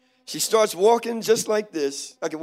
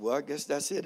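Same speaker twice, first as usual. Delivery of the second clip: low, soft, giving up; retold quiet self-pity, deflated; tearful resignation; 4 semitones lower, 8 dB quieter than usual. Man passed over by the prophet, tearful resignation. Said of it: "My eyes got real watery".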